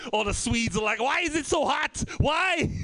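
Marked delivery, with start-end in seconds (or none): 1.0-2.7 put-on Swedish accent. Swedes at the hot Olympics, mock Swedish accent. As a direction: whine about the heat in a mock Swedish accent. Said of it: "That's a German accent, pretend to be a Swedish accent".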